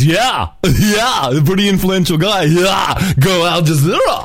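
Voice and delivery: high mock cheering; hammed-up sycophantic fan; cheering audience member. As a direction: imitate a fawning crowd whooping along. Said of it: "I love the slaves in the audience".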